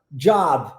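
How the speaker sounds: "job" as English "djahb", closed by the B; English pronunciation. Shown as a demonstration. Teacher shows the word to learners, "job" in English pronunciation. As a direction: say "job" with a DJ onset and open vowel. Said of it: "Mas olha a pronúncia".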